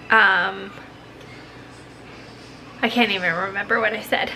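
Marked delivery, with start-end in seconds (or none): 2.8-4.3 stuffy blocked-nose voice; congested. Real, not acted. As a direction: talk through a congested nose. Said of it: "you sound congested".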